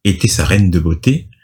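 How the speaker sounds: measured storytelling read; scripted recap narration. A narrator's reading. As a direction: read the recap aloud with deliberate phrasing.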